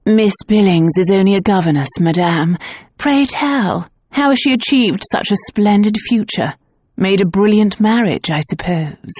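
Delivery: dry, amused society lady; droll. Acted. Lady Harcourt mocking the clairvoyant, drolly. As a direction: tease the fortune teller lightly. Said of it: "Lady Harcourt interrupted in a droll tone".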